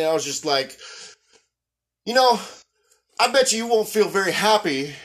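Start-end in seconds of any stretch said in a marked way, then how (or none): 2.0-4.9 firm, measured telling-off; pointed scolding. Retold or imitated. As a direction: confront a driver, pressing for an answer. Retells scolding the driver face to face.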